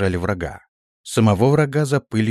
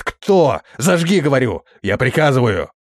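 angry command; 4 semitones higher, 3 dB louder than usual. Acted. Prince angrily demands a light.

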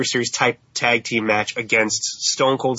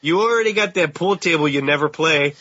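put-on Canadian accent; 4 semitones higher than usual. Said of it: "our terrible Canadian accents".

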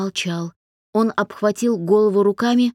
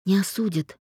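ordinary delivery, nothing marked

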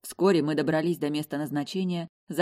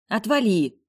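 grumpy mutter; 6 semitones higher, 6 dB louder, slower than usual. A narrator's reading. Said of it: "буркнула я".

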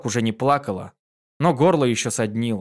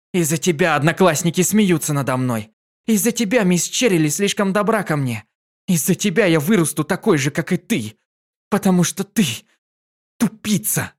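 angry; 5 semitones higher, 3 dB louder than usual. A narrator's reading. Child yells at mother.

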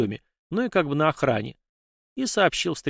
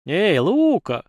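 put-on loud, high cheery hail to an old rival; friendly call; 6 semitones higher, 5 dB louder, much slower than usual. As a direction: greet him with a smile you can hear. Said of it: "приветливо улыбнулся я".

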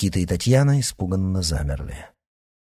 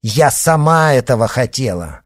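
louder, pulling free in protest; defiant; 4 semitones higher, 7 dB louder than usual. A narrator's reading. Yana jerks away, shouting back at her father. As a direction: snap it back at him.

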